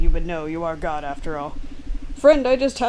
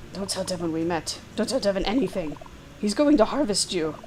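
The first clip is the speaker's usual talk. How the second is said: lightly voiced Claire. Claire warning the player about Devon, sly and urgent. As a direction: play her sly and hurried.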